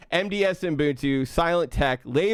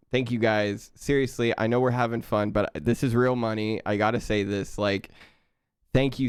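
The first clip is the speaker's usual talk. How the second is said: sincere; 5 semitones lower than usual. Real, not acted. Sincere thanks for real money.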